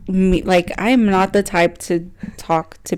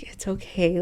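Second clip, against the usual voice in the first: quoted self-reassurance; 10 dB quieter than usual. Retold or imitated. Self-reassurance quoted inside retelling.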